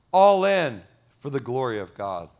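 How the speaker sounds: loud first words, falling in pitch; emphatic declaration. Real, not acted. Pastor rallying congregation for God's glory, emphatic. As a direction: proclaim it firmly from the pulpit. Preaching climax, then softer repeat.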